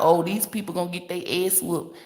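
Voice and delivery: high mock-alarm, lightly acted; mock warning. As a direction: mimic a dire warning, stretching the last words. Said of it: "They be talking about".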